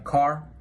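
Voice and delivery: "car" drawn out with a clear final R; rhotic American R. Shown as a demonstration. Student giving American examples, strongly rhotic R. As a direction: sound the R strongly at the end of "car". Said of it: "the R is strongly heard at the end".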